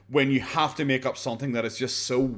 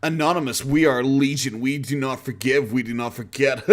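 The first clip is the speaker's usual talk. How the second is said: mock edgy hacker. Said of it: "Boogie tries to sound cool".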